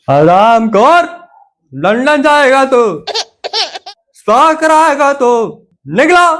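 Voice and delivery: mocking scold. Father laughs then scolds son.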